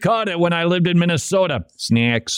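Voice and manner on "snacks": put-on Wisconsin accent. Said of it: "Did you catch that accent?".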